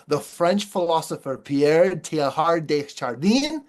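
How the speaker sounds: a lightly put-on French accent on the name, ending in a rise; a speaker's self-mocking try at a French accent on Pierre Teilhard de Chardin. Shown as a demonstration. Speaker tries a French name for the audience, in a lightly put-on French accent. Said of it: "let me give you my best French accent".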